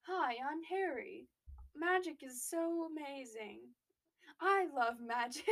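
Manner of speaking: put-on slow, naive boy voice; Harry impression. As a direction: play him wide-eyed and simple. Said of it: "That was Harry in number four".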